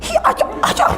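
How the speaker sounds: high, breathless sputter of protest; sputtering kid. Retold or imitated. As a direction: choke out a frustrated kid's splutter.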